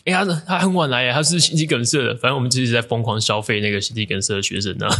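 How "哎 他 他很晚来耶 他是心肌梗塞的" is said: mock teasing. 我们也在消费他说.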